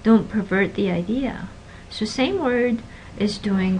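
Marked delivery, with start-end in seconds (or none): 0.0-1.5 pervert said per-VERT, stressed on the second syllable; verb stress in pervert. Shown as a demonstration. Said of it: "with verbs the stress is toward the end".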